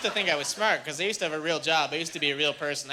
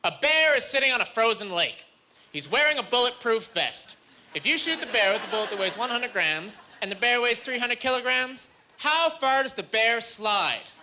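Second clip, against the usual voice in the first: deadpan professor; 4 semitones higher than usual. Retold or imitated. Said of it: "It goes".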